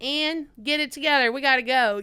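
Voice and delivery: loud, no-nonsense prodding; tough love. Retold or imitated. Cameraman telling the nervous flyer to go, tough love. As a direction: push them firmly to get moving. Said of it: "like, that tough love".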